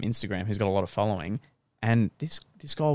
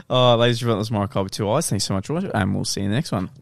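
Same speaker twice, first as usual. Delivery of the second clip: a touch of a showman's sign-off, louder; outro announcer; 4 dB louder, faster than usual. Acted. Podcast host signing off to viewers, announcer style. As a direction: wrap the episode like a host.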